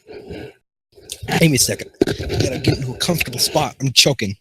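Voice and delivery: stuttering with cold; shivering from cold. Acted. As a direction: teeth chattering, freezing. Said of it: "he stuttered because he is freezing".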